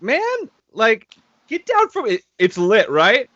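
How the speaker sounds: loud, high retold yell up to the attic; half-mocking shout to the attic. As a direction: shout up at him, fed up. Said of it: "I yelled at him".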